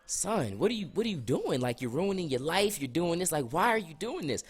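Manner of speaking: dad's talking-to. Retold or imitated. Dad sitting his son down for a big talk, pleading. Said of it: "my dad's sitting down with me like".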